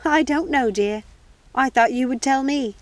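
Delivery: lightly voiced cheerful old lady; old housekeeper. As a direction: play the sweet old housekeeper. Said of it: "Missus Tittlebottom laughed".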